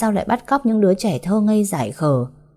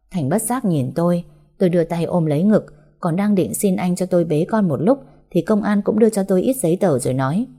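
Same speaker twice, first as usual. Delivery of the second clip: ordinary delivery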